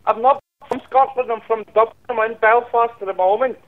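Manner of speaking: put-on supposedly Dublin accent, a little high; put-on Irish accent. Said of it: "Speak in your Scottish voice".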